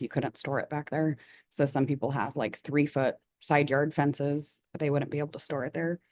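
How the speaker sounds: hoarse, fading voice; losing voice. Real, not acted. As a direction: speak with a worn-out voice. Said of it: "Sorry, I'm losing my voice".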